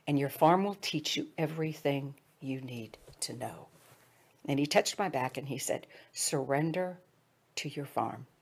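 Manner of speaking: soft, hushed masseur's words; quietly, almost whispered, kindly; gentle quiet advice. Retold or imitated.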